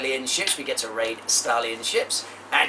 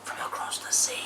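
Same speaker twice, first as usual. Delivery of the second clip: whisper; 6 dB quieter than usual. Acted. Whispered mystery.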